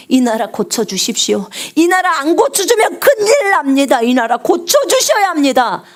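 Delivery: earnest pleading prayer. Acted. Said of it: "그렇게 주님의 얼굴을 구하라고".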